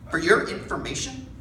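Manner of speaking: deliberate, slow retort; slow pointed comeback. Retold or imitated. Old Navajo woman putting the rude man in place, slow and firm. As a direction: lay it out slowly and firmly. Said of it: "this woman goes".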